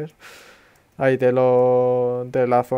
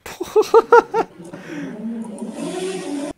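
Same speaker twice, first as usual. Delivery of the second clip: high laugh. Real, not acted. Loud laugh.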